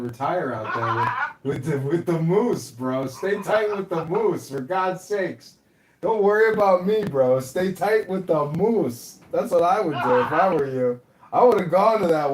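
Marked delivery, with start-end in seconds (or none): 3.1-5.5 slow, deliberate urging; slow, drawn out. Real, not acted. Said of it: "urging slowly". 7.4-9.2 slow, deliberate urging; slow, drawn out. Real, not acted. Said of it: "urging slowly".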